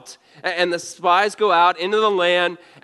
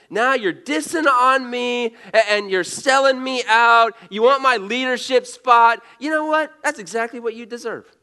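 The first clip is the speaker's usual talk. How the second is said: an imitated leader fed up with his sister; mock-exasperated Moses; 6 semitones higher than usual. Preacher voicing Moses fed up with Miriam, mock indignant rant. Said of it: "Moses could be thinking".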